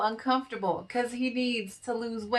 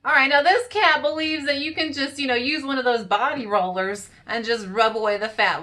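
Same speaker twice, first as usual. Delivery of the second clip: loud, raised scolding of the cat; scolding lecture; 2 semitones higher, 5 dB louder than usual. Acted. Vlogger scolding a cat on screen, loud scolding. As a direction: lay down the law to a fat cat.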